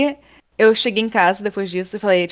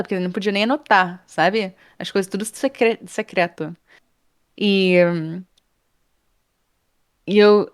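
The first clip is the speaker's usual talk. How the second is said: usual speaking voice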